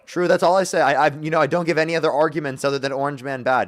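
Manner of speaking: hamming up the caller's caricature; put-on voice. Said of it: "I'm done with the voice".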